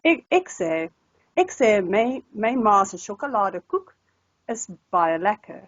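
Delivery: posh Capetonian Afrikaans, "ek" vowel altered; posh Cape Town accent. Shown as a demonstration. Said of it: "Cape Townian, which can be a posh accent as well".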